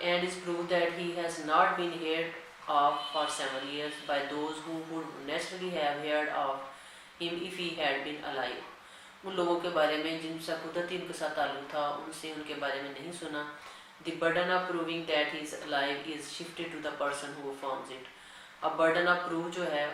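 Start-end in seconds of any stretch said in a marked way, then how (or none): 0.0-8.7 dictating a legal section to students at x0.3; slow, deliberate reading of the act; slow statute dictation. Acted. Reads the statute text aloud. 14.0-18.1 dictating a legal section to students at x0.3; slow, deliberate reading of the act; slow statute dictation. Acted. Reads the statute text aloud.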